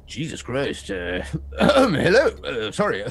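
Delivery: startled, halting greeting; taken aback and hesitant; flustered Jorah. Acted. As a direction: clear the throat and apologise awkwardly. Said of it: "And Jorah's like".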